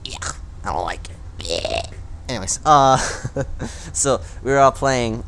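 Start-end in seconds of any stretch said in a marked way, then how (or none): 0.0-1.8 whispered. Shown as a demonstration. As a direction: whisper it under your breath. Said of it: "repeated as a whisper".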